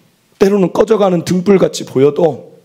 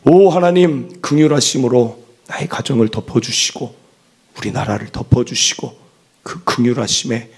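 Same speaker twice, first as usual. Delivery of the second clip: prayer; 6 semitones lower than usual. Acted. Leading a prayer.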